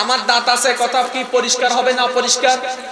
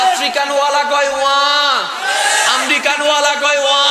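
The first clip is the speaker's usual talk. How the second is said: louder call. Acted. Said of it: "আর একটু জোরে কর না".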